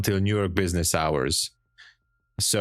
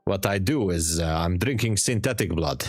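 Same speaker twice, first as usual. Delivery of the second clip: put-on light Transylvanian vampire accent, playful; a hint of a Transylvanian vampire accent. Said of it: "this is my, uh, Transylvanian vampire accent".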